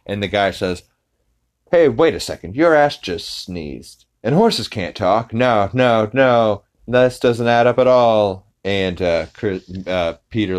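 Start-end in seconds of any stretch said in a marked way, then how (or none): 1.7-8.4 getting louder and higher, no no no; a mild mock alarm that builds as he talks; suspicious fair guy. Fair worker calls out Peter's sneezing horse suit, building louder.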